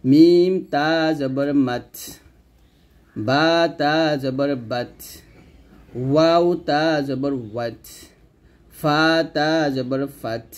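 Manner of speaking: slow spelling, each "মাত", "বাত", "ওয়াত", "ফাত" ending in released breath; hams drill. Shown as a demonstration. Teacher drills lip letters, slow with breathy final ত as in "ফাত". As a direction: draw out letter names, puff air on final ত of "মাত". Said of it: "হামসের হরফগুলো বিস্তারিত শিখবো".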